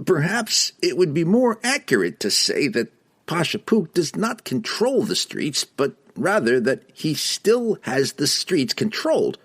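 very high squeaky reply; halfling voice. Acted. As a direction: chirp it out high. Don Don speaking carefully.

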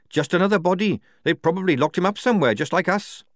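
disgruntled prisoner's complaint; Tonka, disgruntled captive. A narrator's reading. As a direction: grumble it high, well above the narration.

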